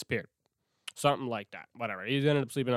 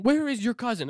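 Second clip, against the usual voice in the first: higher and louder, a panicked demand; frantic grandma; 9 semitones higher, 4 dB louder than usual. Retold or imitated. Grandma's freaking out.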